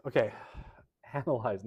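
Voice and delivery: a quick breathy fix under the breath; whispered self-correction. Real, not acted. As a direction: whisper "analyze" to yourself, laughing. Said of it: "not organizing".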